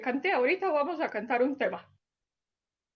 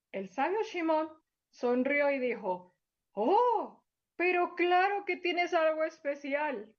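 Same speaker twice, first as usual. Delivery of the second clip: gentle storybook narration for little ones; storyteller voice for small children; story for children. Acted. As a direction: read it like a bedtime tale to kids.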